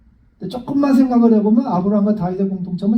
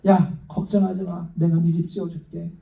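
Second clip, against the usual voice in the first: reassuring God; 4 semitones lower, 4 dB quieter than usual. Retold or imitated. God comforting David who wants to build him a house, gently. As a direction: ease his worry like a kind father. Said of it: "탁 보고 기뻐하시다가".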